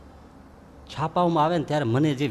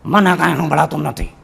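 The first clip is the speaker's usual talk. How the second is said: put-on old woman; 5 dB louder than usual. Old woman feigns deafness.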